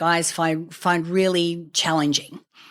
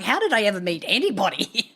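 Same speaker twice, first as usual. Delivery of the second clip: laughing; 3 semitones higher than usual. Retold or imitated. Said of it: "I'm like".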